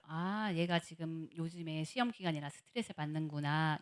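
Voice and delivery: low, soft musing; hushed, sympathetic thought; understanding inner thought. Retold or imitated. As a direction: realise it gently, as if to yourself. Retold understanding thought about child.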